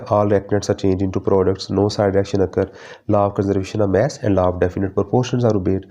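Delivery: dictating the points very slowly; slow syllabus reading. Acted. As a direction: spell each point out for notes. Reads syllabus points aloud. (धीरे धीरे syllabus पढ़ना)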